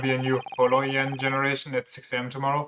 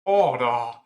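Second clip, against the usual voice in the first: shouted order; 4 dB louder than usual. Acted. Judge calls court to order.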